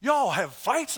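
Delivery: imitating a friend's disbelief; mock shock. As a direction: ask it in mildly exaggerated shock. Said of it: "He was really shocked".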